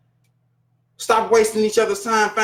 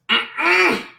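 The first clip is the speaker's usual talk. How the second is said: a high, drawn-out "Mm-mm" of no; a long, high hum of refusal; emphatic refusal; 10 semitones higher than usual. Real, not acted. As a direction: shut the idea down flat. Refusing the idea.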